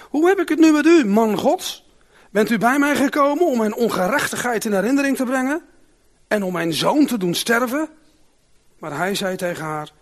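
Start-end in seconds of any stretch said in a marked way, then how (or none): 0.1-7.9 loud, higher grieving cry of the mother; anguished accusation. Acted. Widow reproaches the prophet over her dead son, loud anguished cry. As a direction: hurl the question at him in despair.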